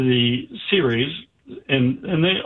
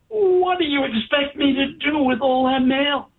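much higher, mock exasperated question; a mad boss throwing up his hands; 12 semitones higher than usual. Angry boss to the doctor about the mail, mock exasperated.

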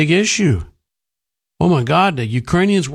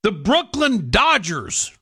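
mocking impression; 6 semitones higher than usual. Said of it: "and they go".

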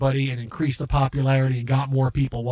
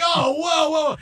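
higher, louder retold alarm; startled whoa; 10 semitones higher, 4 dB louder, slower than usual. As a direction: pull back in sudden shock. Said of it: "it was like".

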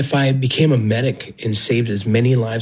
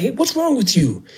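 high, indignant mock scolding, not shouted; retold angry outburst; 11 semitones higher than usual. Agent scolding the mother who threw her baby, high-pitched indignant retelling. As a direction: scold her like she's lost her mind, pitched up. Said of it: "starts telling her in Spanish".

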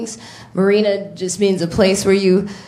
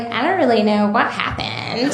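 white voice; 3 dB quieter than usual. Retold or imitated. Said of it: "I'm gonna use my white voice".

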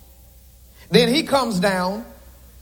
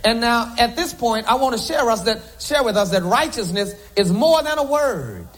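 normal talking voice

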